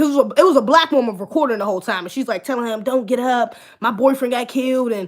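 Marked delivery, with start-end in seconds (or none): 2.8-4.9 put-on emotional voice, lower pitch. Retelling what a woman recording a video said: imitating someone getting emotional. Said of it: "getting emotional".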